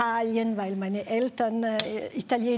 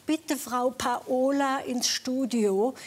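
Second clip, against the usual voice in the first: loudspeaker call; 2 semitones higher, slower than usual. Retold or imitated. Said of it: "über den Lautsprecher".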